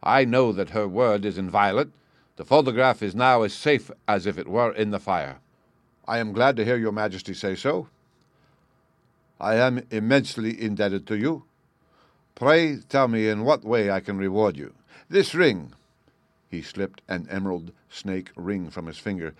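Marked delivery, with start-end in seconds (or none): 0.0-5.4 loud, assured royal voice; king speaking loud and sure. Acted. King continues loudly. 6.1-15.7 loud, eager royal offer; grateful king. Acted.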